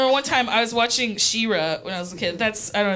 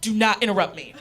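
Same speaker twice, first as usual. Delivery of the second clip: mom's serious lecture; 4 dB quieter than usual. Retold or imitated. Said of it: "this is a real reenactment of her reaction".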